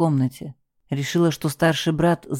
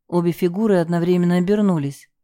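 ordinary delivery

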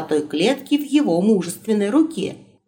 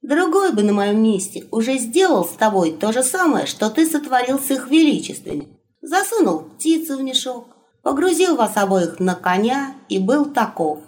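raised, lecturing wolf companion; higher wolf voice; 3 semitones higher than usual. Acted. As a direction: talk him round, higher pitched.

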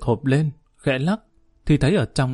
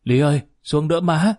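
flustered call; 4 semitones higher than usual. A narrator's reading. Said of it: "Ông Viễn cuống quýt gọi".

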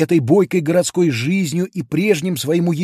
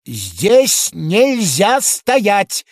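slow, higher and louder order; policeman's shout; 6 semitones higher, 4 dB louder, much slower than usual. A narrator's reading. Policeman shouting up at the giant, slow and loud. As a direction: lay down the rule like a small stern constable. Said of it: "крикнул полицейский".

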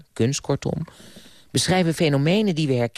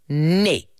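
forceful no; 3 semitones higher, 4 dB louder than usual. Acted. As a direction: put your foot down on the word. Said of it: "zei Jonathan krachtig". (krachtig, stellig nee)

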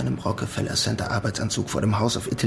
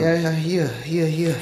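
eager to please; 6 semitones higher, 3 dB louder, slower than usual. Acted. Hurriedly handing over ID.

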